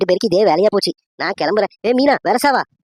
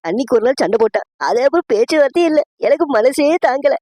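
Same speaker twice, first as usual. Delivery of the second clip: higher-pitched, mock-weepy complaint; acted tearful lament; 4 semitones higher than usual. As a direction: lament a brother's silence as if crying. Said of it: "அதான் அழுதுட்டு இருக்கேன்". (அழுகையோடு புலம்பும் நடிப்பு)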